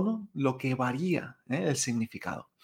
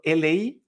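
"li" falling sharply; fourth tone. Shown as a demonstration. Teacher giving another example, "li" sharply falling. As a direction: drop "li" short and dry. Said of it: "con cuarto tono sería".

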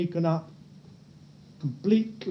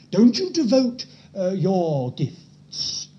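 loud raised warning, pitched up; warning as God; 5 dB louder, slower than usual. Pretend. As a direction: command it like a stern God. God's warning voiced.

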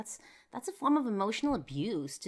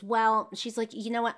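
a sharp, louder "well, you know what" as she waves him off; dismissive brush-off; 7 semitones higher, 8 dB louder than usual. Retold or imitated. Quoting the sister as she brushes off his request, dismissive. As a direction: imitate her cutting him off, higher and louder.

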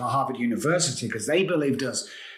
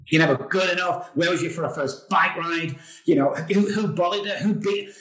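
accusing inner voice; 5 semitones higher than usual. Retold or imitated. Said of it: "All them thoughts, it was horrible".

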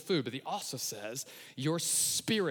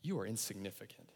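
devil's accusation; 5 semitones lower, 9 dB quieter than usual. Acted. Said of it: "maybe it sounds like this".

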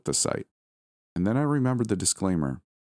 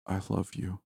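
softer, faint, fading; weak last words; 2 semitones higher, 6 dB quieter than usual. Acted. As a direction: say it with your last breath. Dying husband's last words.

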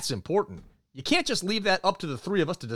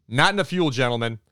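emphatic punchline; 4 dB louder than usual. Pretend. Host joking about the crashed helicopter, emphatic mock scold. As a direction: hammer the joke home.

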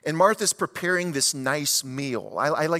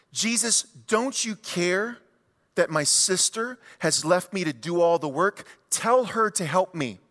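frustrated plea. Retold or imitated. Martha complaining to Jesus about her sister, mock exasperation. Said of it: "her frustration boils over".

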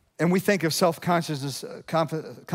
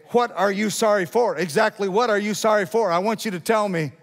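mock sharp demand, pitched up; higher, insistent cross-examining; sharp wife; 6 semitones higher, 4 dB louder than usual. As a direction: play a wife demanding specifics.

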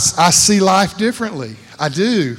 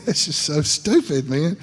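laughing at himself; 5 dB quieter than usual. Real, not acted. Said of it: "That's just stupid".

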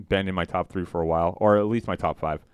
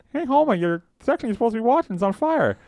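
quoting Lenny; 4 dB louder than usual. Retold or imitated. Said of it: "he's like".

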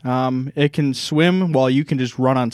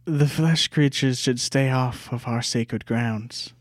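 slow, hissing lizard-folk menace; slow lizard creature voice; slower than usual. Acted. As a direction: speak like a wary reptile. Lizard NPC speaking to party.

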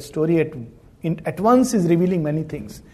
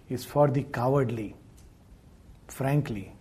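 ordinary talk, nothing marked

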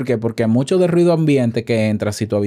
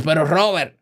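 skeptical listener; 7 semitones higher than usual. Pretend. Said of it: "Y tú dirás".

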